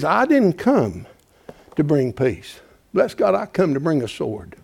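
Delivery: hushed scripture quote. Acted. Preacher quoting Jesus to the church, suddenly hushed. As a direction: pull them in close with a low hush.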